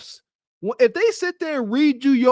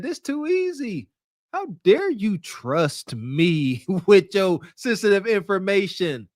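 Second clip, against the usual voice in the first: Bonquisha voice; 3 semitones lower than usual. Retold or imitated. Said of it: "Bonquisha said".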